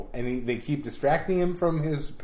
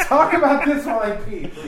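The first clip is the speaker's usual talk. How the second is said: laughing; 11 semitones higher, 9 dB louder than usual. Real, not acted. Laughing request.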